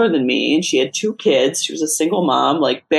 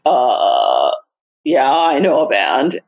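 faked confidence; 3 semitones lower, slower than usual. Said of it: "And I just instantly was like".

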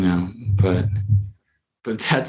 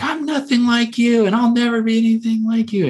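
much higher, strained cry of defiance; defiant high voice. Retold or imitated. Client to his father figure, high defiant cry. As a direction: fling it back at the father, voice pitched way up.

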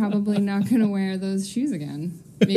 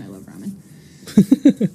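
gushing; 3 semitones lower, 8 dB louder, much slower than usual. Real, not acted. Gushing about favorite food.

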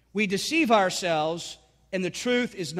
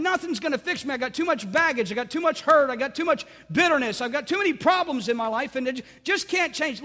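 despairing voice, rising higher as it protests; voice of unbelief; 5 semitones higher, 3 dB louder than usual. Retold or imitated. Unbelief whispering to a struggling believer, despairing and pleading. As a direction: give voice to someone who feels stuck, pleading. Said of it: "what unbelief will tell you".

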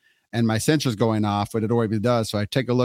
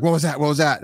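higher-pitched imitation of a worried wife; alarmed; 4 semitones higher than usual. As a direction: call out a mock alarmed question. Wife's alarmed question, retold.

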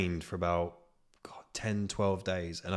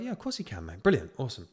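much higher, chirpy mock agreement; hammed-up cheerful yes; mock eager yes; 3 semitones higher, faster than usual. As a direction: play the mate saying yes far too eagerly. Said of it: "It was like".

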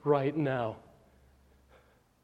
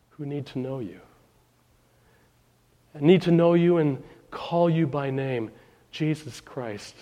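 pastoral prayer; 3 semitones lower than usual. Real, not acted. Pastor praying to the Lord for his congregation, pastoral prayer. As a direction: lead them in earnest prayer, with pauses.

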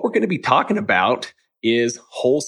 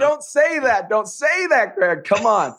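playful protest; 8 semitones higher, slower than usual. Real, not acted. Host protests guest's remark.

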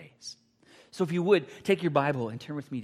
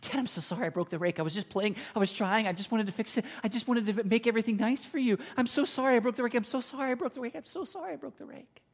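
rising, pleading, ever higher and more broken; sobbing apology; 9 semitones higher than usual. Retold or imitated. Boy begging his dad's forgiveness, sobbing higher and higher. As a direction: beg forgiveness through tears, climbing higher.

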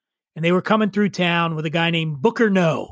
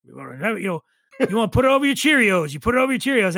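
Kentucky drawl; 3 semitones higher, faster than usual. Retold or imitated. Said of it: "he was the one that says".

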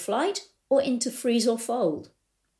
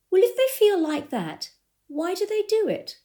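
puzzled question; 10 semitones higher than usual. Retold or imitated. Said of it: "she looked at me and she said".

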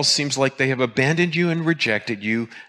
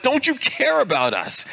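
disciples' panicked plea; 12 semitones higher than usual. Retold or imitated. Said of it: "it's like".

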